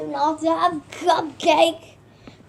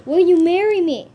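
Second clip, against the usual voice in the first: louder, faster, pushier proposal; insistent proposal; 6 dB louder, faster than usual. Acted. Pressing the pet again, louder and faster. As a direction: demand an answer this time.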